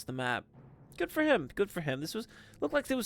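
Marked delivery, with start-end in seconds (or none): 1.0-1.5 much higher sing-song good for him; high mock praise. Real, not acted. Caster praising the waddling monolith, high and teasing. 1.5-2.0 soft dry repeat. Real, not acted. Caster repeating praise to himself, quiet and dry.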